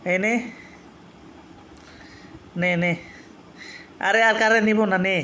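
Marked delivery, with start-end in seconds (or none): 4.0-5.2 pleading promise. Real, not acted. Promising cat he won't take food.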